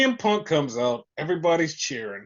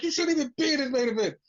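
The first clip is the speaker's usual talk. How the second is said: back in character; 8 semitones higher, faster than usual. Retold or imitated. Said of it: "had to get back into character".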